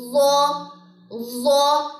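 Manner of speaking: ضا said full-mouthed and heavy, with no whistle. Shown as a demonstration. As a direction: give ضا a thick, heavy sound without hiss. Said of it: "موٹا ہے اور اس میں سیٹی نہیں ہوگی".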